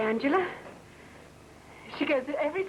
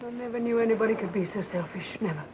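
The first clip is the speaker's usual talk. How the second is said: bitter accusation; 2 semitones lower than usual. Acted. Wife confronts husband in quarrel.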